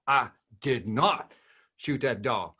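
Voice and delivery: slow "I did not", a pause, then "shoot that dog"; pause after not. Shown as a demonstration. Zig Ziglar's dog phrase as a rejection, slow with a pause. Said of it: "That is a rejection of the fact".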